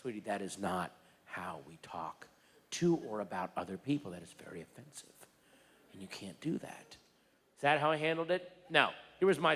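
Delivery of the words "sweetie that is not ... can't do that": much softer, lower, hushed correction; gentle parent talk. Pretend. Dad imagining a gentle talk with his daughter, soft and low. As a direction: calmly explain like a patient parent. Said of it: "Did I sit her down and go".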